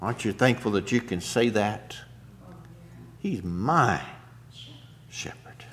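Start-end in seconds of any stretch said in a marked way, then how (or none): 3.2-5.7 whispered quote. Real, not acted. Quoting softly, trailing to whisper.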